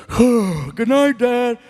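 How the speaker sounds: lightly voiced innocent kid saying good night; sneaky kid. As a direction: act all innocent, like a kid sneaking off to bed. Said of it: "and he'll say".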